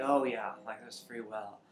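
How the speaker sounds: half-hearted mock man's voice, dismissive quote; bad male-voice imitation. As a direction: do a poor impression of a man. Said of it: "imitation of a male voice".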